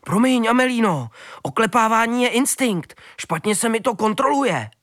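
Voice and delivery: a lightly voiced dog saying sorry; sheepish high dog voice; apologetic dog. A narrator's reading. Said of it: "omlouval se pes Bergman".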